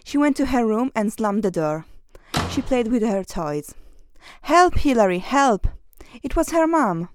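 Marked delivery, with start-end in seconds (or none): 4.4-5.7 raised, higher call for help; mock cry for help. Mom calling Hilary for help, raised mock cry. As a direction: call out as if being carried off.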